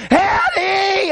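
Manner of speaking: high, laughing retold yell of the name; loud holler. Frantic girl calling up the stairs for Eddie, high laughing yell. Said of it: "I heard her holler".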